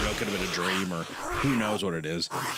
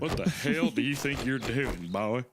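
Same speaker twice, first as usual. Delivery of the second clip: slower, gruff dad voice, drawn out; angry dad; slower than usual. Retold or imitated. Dad scolding the boy on the floor, slow gruff voice. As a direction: lean into the annoyed dad. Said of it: "scurry back to my room".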